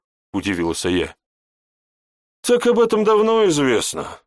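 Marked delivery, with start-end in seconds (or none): 2.4-4.2 high, surprised, a bit louder; surprised reply. A narrator's reading. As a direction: tell it as if it's common knowledge. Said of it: "удивился в ответ собеседник". (удивлённо и громче)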